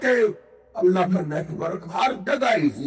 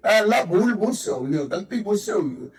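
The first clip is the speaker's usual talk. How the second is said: Jonah's plea. Acted. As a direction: plead to God, drawing out the key words. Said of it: "یونس پیغمبر نے مچھلی کے پیٹ میں آواز دی".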